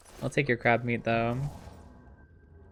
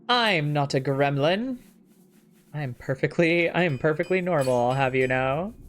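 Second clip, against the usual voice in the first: mock indignant. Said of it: "can't say that with a straight face".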